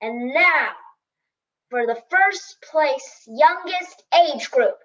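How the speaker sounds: announcer. Retold or imitated. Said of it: "The loudspeaker blared".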